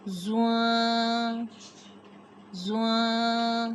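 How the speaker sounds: زواں said slow and soft; a gentle, slow زواں; softly. Shown as a demonstration. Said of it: "زواں کو ہم نے نرمی کے ساتھ پڑھنا ہے".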